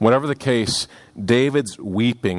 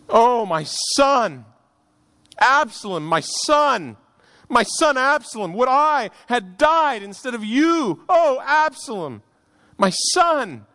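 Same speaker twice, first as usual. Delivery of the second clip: much higher, slow "Oh, my son" in mournful wailing tone; grieving cry; 12 semitones higher, slower than usual. Acted. David in the chamber mourning Absalom, weeping aloud. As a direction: cry out for the lost son, a father's lament. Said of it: "and wept".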